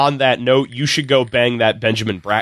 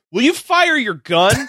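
put-on kid voice; 8 semitones higher than usual. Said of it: "one kid asks".

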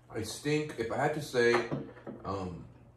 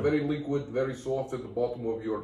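Polish accent. Shown as a demonstration. Podcaster explains his accent to co-host, in Polish accent. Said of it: "I can do Polish".

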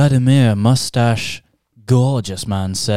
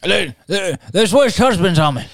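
mock outrage; 7 semitones higher than usual. Mock shocked complaint.

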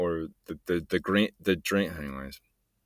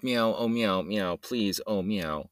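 begging cat meows; 4 dB quieter, slower than usual. Retold or imitated. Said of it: "he comes pawing over and just".

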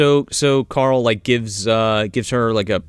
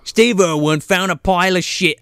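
slipping into Cockney; 3 semitones higher than usual. Pretend. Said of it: "I'm going Cockney".

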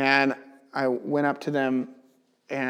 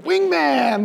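high, louder celebratory call; triumphant cheer; 11 semitones higher, 4 dB louder than usual. Retold or imitated. Believer cheering God as his wingman, high excited call. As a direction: shout it like a victory high-five.

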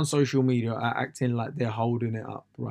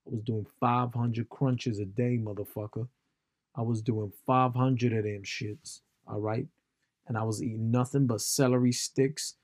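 mock American boasting; imitation American, self-righteous swagger; American accent. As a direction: put on an American accent for a bragging fitness buff. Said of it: "in that accent".

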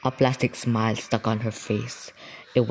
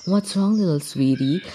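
mother soothing; 7 semitones higher than usual. Retold or imitated. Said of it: "you just imagine".

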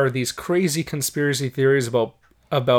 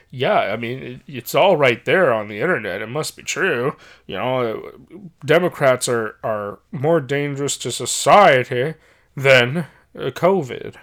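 put-on Southern accent. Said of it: "that was my shitty Southern accent".

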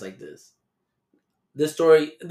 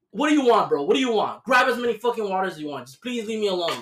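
exasperated pleading; 7 semitones higher, faster than usual. Retold or imitated. Worker pleading with a rude customer, exasperated. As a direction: beg him to just leave you alone.

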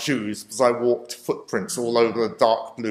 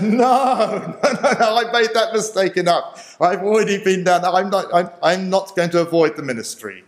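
emphatic refusal; 7 semitones higher, 4 dB louder than usual. Retold or imitated. Refusing the principal's offer.

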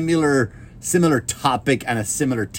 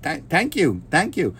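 put-on slightly higher, grateful little boy; lightly voiced thankful child; grateful kid; 4 semitones higher than usual. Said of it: "the kid's very grateful".

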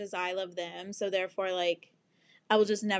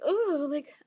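high, fast, panicky wail; panicked; 8 semitones higher than usual. Retold or imitated. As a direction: freak out in a high whine. Panicked inner voice, cry shout.

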